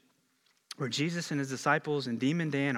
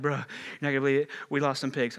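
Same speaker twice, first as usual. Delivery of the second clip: put-on breathless herd boy; much faster than usual. Probably out of breath.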